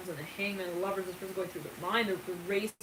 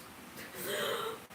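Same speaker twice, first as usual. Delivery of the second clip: mock wail; 6 dB quieter than usual. Acted wail before the Titanic line.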